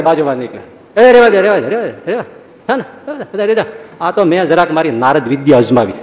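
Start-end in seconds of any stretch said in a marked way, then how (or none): 1.0-3.7 placating hush. Retold or imitated. Maharaj calming the fight.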